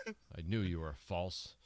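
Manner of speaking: deadpan, drawn-out reproach; mock disillusioned verdict. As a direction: let the accusation sink, slowly.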